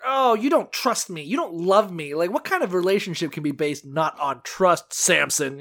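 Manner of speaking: wounded, accusing complaint; playing the aggrieved lover; mildly hammed-up indignation; mock anger. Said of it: "she's even more pissed now".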